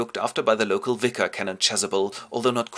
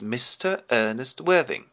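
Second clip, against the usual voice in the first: slow formal announcement; butler's announcement; 3 semitones higher than usual. Acted. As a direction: announce the guest at the door. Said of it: "the butler comes in and announces".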